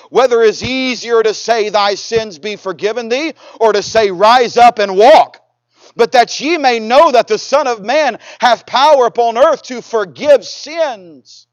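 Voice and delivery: slow, emphatic Bible reading; scripture reading. Acted. Preacher reading Jesus's words to the congregation, solemn proclaiming. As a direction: proclaim the verse with drawn-out endings.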